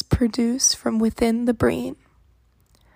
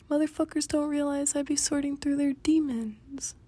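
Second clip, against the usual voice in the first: whispering; 3 semitones higher, 6 dB quieter than usual. Acted. Whispered boast.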